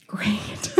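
dry word breaking into a laugh; laughing sarcastic. Retold or imitated. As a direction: say it wryly through a soft laugh. Boyfriend arrested, sarcastic aside.

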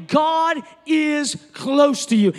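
slow, loud, emphatic proclamation; slow preacher's shout; preaching shout. Acted. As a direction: declare it to the whole room. Preaching at full force.

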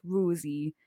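Rosie slowly and low as ruzi; Geordie Rosie. Retold or imitated. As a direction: draw out Rosie with a long Geordie oo. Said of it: "broke up my name into".

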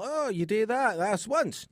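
high, mock Scottish listener; Scottish brogue, incredulous; Scottish accent. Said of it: "in a Scottish accent".

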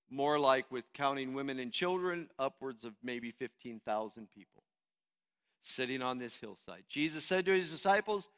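normal talking voice

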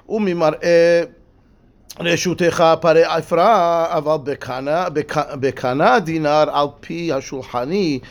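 slow, measured study-hall reading; slow text reading. Shown as a demonstration. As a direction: read the text aloud slowly, phrase by phrase. Reads Hebrew-Aramaic text aloud.

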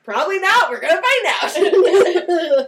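put-on answering kids, laughing; laughing admission. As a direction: giggle it out. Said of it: "I'd be like".

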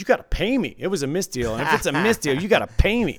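mock-indignant, pitch jumping on the demand; insistent demand. Dealer acting out a player demanding payment, insistent. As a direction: imitate a player arguing for money.

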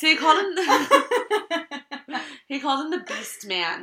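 words broken by real laughter; laughing. Real, not acted. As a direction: laugh through the line. Laughing while retelling.

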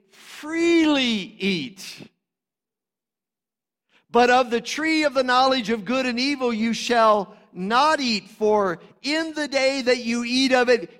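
high, loud proclamation of God's command; full-force preaching. Acted. Preacher proclaiming God's command to Adam, loud and high.

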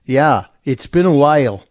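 lightly hammed Scottish lilt; imitating a Scottish accent, lightly; mock Scottish. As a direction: echo Depp with a faint Scottish brogue. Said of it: "trying to affect a Scottish accent".

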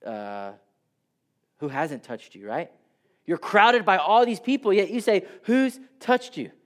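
incredulous disciples. Retold or imitated. Disciples scoffing at Jesus over the crowd, incredulous. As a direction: scoff at how silly the question is. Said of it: "The disciples are like".

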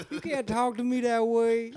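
high, whining New Orleans protest; put-on movie character voice; Joe Pesci character. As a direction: plead it high, playing the film part. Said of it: "I would do the Joe Pesci character".

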